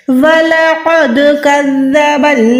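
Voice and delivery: slow, measured tajweed recitation, vowels held long; Quran recitation. Shown as a demonstration. Teacher models the verse for students, slow recitation. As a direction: chant the verse on a sustained even tone, very slowly.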